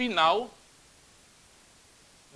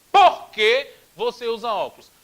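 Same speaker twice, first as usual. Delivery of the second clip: stretched question; 3 semitones higher, 8 dB louder than usual. Shown as a demonstration. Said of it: "um porquê que sai mais esticado".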